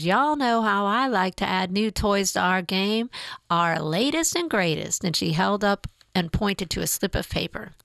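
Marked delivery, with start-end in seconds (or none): 0.0-5.0 a hint of a Southern accent, upbeat; lightly drawled Southern accent, enthusiastic. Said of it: "loud voice and thick Southern accent".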